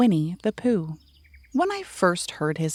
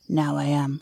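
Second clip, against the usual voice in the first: growly voice; 4 semitones lower than usual. Acted. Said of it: "said a growly voice".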